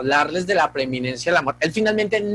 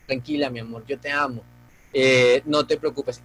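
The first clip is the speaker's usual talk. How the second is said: reassuring; 5 semitones lower than usual. Retold or imitated. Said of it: "yo le decía a Sofía".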